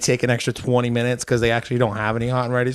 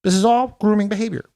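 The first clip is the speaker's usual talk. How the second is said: Jordan Peterson impression; 5 semitones higher than usual. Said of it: "I just went into, like, a little Jordan Peterson".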